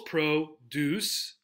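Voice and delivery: PRO-duce, split into two beats with the first stressed; first-syllable stress. Shown as a demonstration. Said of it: "On the first syllable".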